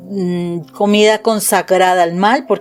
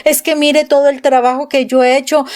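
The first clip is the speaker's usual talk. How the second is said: mock yelling; 4 semitones higher than usual. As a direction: imitate a mild, aggrieved rant without really shouting. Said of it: "Se puso a gritar Jesús".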